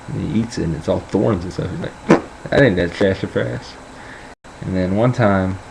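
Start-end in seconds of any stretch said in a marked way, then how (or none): 2.5-3.7 a hint of old Southern grandpa. Grandpa after chewing thorns, lightly imitated Southern voice. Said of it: "this is how he talks".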